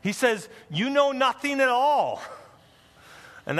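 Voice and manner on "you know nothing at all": lightly voiced older high priest, scornful; a hint of a stern old priest, dismissive; mild mock scorn of a high priest; older male voice. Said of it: "you can kind of imagine a male, older voice".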